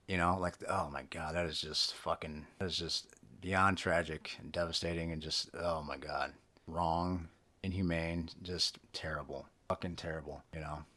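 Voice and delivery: low, subdued dismay; bummed out. Real, not acted. Podcaster lamenting the killing of Afghan helpers, bummed out. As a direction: let it sink, quietly disheartened. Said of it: "it just bums me out".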